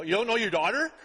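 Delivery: mock disbelief, rising at the end; incredulous. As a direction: act shocked they don't know their own daughter. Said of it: "I was like".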